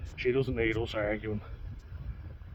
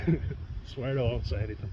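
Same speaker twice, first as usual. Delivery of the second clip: laughing promise. Real, not acted.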